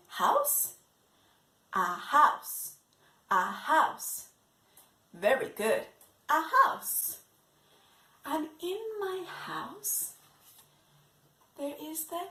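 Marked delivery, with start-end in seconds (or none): 6.3-7.2 puppet echoing, slightly higher. Acted. Puppet Monkey repeating the word for the class.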